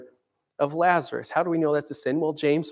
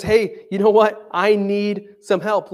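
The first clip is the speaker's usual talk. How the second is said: mild retold yell; 4 semitones higher, 4 dB louder, slower than usual. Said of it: "he yells out".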